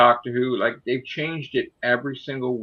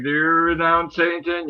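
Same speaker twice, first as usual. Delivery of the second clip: lightly voiced church questioner, raised pitch; 5 semitones higher than usual. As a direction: put the solemn question as if in church. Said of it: "go to church and be like".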